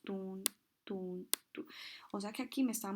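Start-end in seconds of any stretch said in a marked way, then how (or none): 0.0-1.7 soft rhythmic "tun" like a stethoscope pulse; imitating heartbeat sounds. Shown as a demonstration. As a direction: tap out each "tun" quietly, like Korotkoff sounds. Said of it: "vuelvo a escuchar los ruidos". (imitando suavemente los latidos, "tun")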